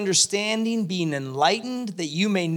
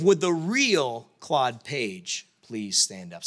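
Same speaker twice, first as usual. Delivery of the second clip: slow, grand host call, a touch lower; game show host line; 6 semitones lower, slower than usual. Retold or imitated. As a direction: stretch the catchphrase like a TV host. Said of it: "this idea of".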